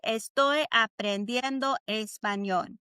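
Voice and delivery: słowo po słowie, wyraźnie; slow model for repeating. Shown as a demonstration. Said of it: "repeat after me".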